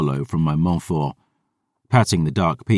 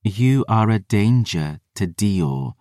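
sister's cold hiss; 3 semitones higher, slower than usual. Retold or imitated. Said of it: "that viper's hiss at my back".

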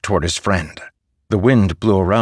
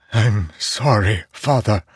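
sobbing; 2 semitones higher than usual. A narrator's reading.

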